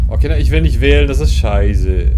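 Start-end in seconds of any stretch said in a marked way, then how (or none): 1.1-2.1 drawn-out disgusted verdict; slow, disgusted grumble. Real, not acted. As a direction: drag it out, fed up.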